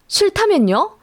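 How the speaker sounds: a sharp, high challenging "so what if I refuse"; defiant retort. Retold or imitated. Daughter-in-law defies her mother-in-law: high, sharp challenge. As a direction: throw the question back high and defiant.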